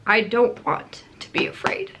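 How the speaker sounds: reading her note in a whisper. Retold or imitated. Reading her own notepad words in a whisper. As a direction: breathe the words out like a private note. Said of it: "The last thing I wrote on my notepad".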